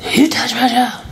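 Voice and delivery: high-pitched, half-yelled accusation; retold angry confrontation. Mother confronts the girl who hit her child, retold outrage. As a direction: re-enact an outraged parent's challenge.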